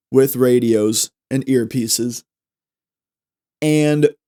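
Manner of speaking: talking with food in mouth; words round a mouthful; mouth full. Real, not acted. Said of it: "Sorry, there's something in my mouth".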